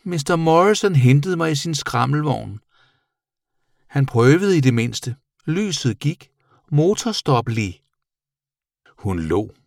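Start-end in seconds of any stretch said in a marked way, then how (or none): 0.0-7.8 high little creature voice; chatty bat character. A narrator's reading. Bat recounting its ride to the boy, high character voice. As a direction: tell it high-pitched, drawing out some words.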